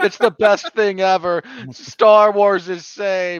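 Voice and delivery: high, loud, gushing weeping. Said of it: "weeping over industrial film, going".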